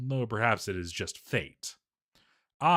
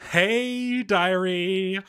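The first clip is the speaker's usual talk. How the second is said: much higher, bright sing-song hello; chirpy diarist greeting; cheery greeting; 7 semitones higher, 4 dB louder, much slower than usual. Acted. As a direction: greet the diary like an old friend.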